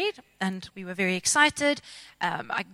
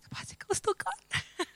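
sulky deadpan; 10 semitones higher, 9 dB quieter than usual. Retold or imitated. Sulking at flatmate.

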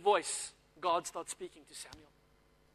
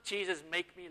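a mild mock defiant challenge; arrogant; 6 dB quieter than usual. Shown as a demonstration. Preacher shows the wrong, arrogant way to pray it, lightly mocking. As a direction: toss it off as a dare. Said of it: "like, arrogant".

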